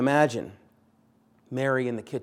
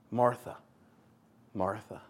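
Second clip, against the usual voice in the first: gentle repeated name; 3 semitones lower, 5 dB quieter than usual. Retold or imitated. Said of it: "twice for emphasis".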